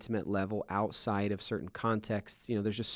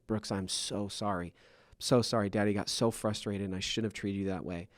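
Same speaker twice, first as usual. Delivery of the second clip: soft apology. Retold or imitated. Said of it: "and I'm like".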